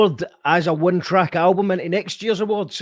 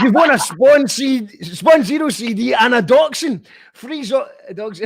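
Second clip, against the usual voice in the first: raised, laughing prize announcement; amused, higher-pitched game-show reveal; 5 semitones higher than usual. Real, not acted. Joke prize announcement amid laughter.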